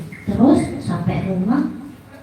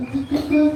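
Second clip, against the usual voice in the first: soft, higher-pitched knock sound; imitated knocking; 4 semitones higher, 5 dB quieter than usual. Teacher arriving at the door, soft imitated knocking. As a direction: tap out "tuk, tuk, tuk" lightly.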